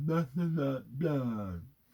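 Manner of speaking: mock slow exaggerated speech. Retelling what a woman said while pointing: imitating someone speaking very slowly. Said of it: "She said it so slowly I could lip read it".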